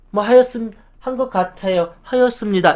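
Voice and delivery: timid voice sagging at each ending; drooping endings. Shown as a demonstration. Meek employee answering, endings dropping off. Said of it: "말끝이 이렇게 툭툭 떨어져요".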